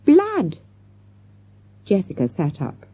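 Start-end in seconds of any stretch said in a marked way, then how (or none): 0.0-0.6 high cry of horror; horrified. A narrator's reading. Girl looking at her wet fingers, horrified. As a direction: let it out high and aghast. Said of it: "gazed at her wet crimson fingers in horror".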